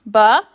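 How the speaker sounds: Ba-a-k-pa-a-k, each sound held apart. Shown as a demonstration. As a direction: stretch out backpack sound by sound. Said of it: "Now let's count the sounds".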